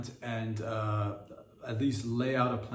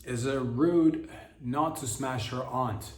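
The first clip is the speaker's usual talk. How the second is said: reading a listener letter; slower than usual. Shown as a demonstration. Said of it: "Someone wrote in and asked".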